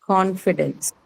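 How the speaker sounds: Confidence stressed on CON, falling after; stress on first syllable. Shown as a demonstration. Teacher repeats Confidence for the class, stressing CON. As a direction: put the weight on CON in Confidence. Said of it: "first syllable".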